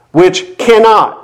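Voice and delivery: "cannot" drawn out slowly and leaned on; stress on cannot. Shown as a demonstration. Preacher underlining the second negative, "cannot" slow and heavy. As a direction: hold the word "cannot" and weigh it. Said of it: "The second negative".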